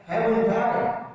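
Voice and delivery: "Haven't I?" with a rising tune on "I"; questioning rise. Shown as a demonstration. Teacher showing students how a tag asks, rising. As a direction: lift "Haven't I?" at the end like a real question. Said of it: "You're asking the question".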